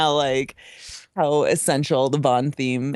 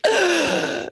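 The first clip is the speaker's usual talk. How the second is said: mock shocked no; 13 semitones higher than usual. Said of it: "I'm immediately just like".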